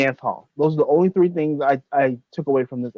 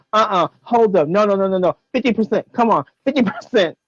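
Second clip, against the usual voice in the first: haggling; 5 semitones higher than usual. Retold or imitated. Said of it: "She's like".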